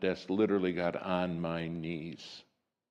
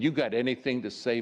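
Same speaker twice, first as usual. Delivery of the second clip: scornful retold question, a touch louder; mocking contempt in a retold challenge; dripping with contempt; 4 semitones higher, 3 dB louder, faster than usual. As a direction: sneer the question at her. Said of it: "My voice is just dripping with contempt".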